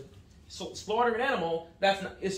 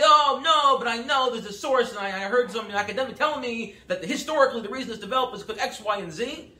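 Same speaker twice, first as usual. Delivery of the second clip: mock objection; 3 semitones higher, 5 dB louder than usual. Imagined objector citing academics.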